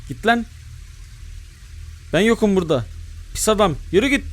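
high, pleading shoo-off; squeaky begging for the monster to leave; shooing it away. Real, not acted. Hiding gamer begs the monster to go away, high and pleading.

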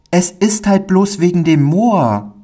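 put-on high, timid child voice; a small boy admitting his fear; shy little boy. Little Pauli tells the kind man, in a high timid child voice.

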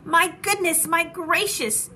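high-pitched crowd astonishment; amazed exclamation. A narrator's reading. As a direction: exclaim in wonder, stretching the second phrase. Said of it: "they shouted".

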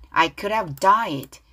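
slow line with "could have" run together; weak linked D. Shown as a demonstration. Teacher models the whole lyric, D weakened and linked. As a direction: tap lightly from "could" into "have", then land "died". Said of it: "드 발음 약해".

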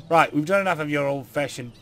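put-on British accent sliding into New York, on "Right, we've done enough of your old-fashioned"; mixed British accent. The speaker scolds Ben in a muddled British accent. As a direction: Brit voice that slips toward New York. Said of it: "I'm mixing my accents together".

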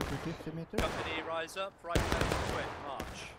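slow, loud parade-ground order; drawn-out drill command. Real, not acted. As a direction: stretch the command across the field. Officer calling drill orders.

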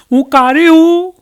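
high, slow pleading bride. Retold or imitated. Bride anxiously asking her mother-in-law, high and loud.

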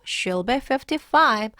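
slow sentence leaning on "fifty-five"; stress on fifty-five. Shown as a demonstration. Teacher answering "How old is she?", "fifty-five" stressed. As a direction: make "fifty-five" stand out. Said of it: "여기에 강세를 두어서 말해주세요".

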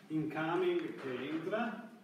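usual speaking voice

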